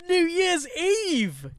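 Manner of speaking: high, long drawn-out hype shout; big, slow, high-pitched holler; hyped announcement. Real, not acted. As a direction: stretch it out like a party announcer. Host hypes up New Year's Eve.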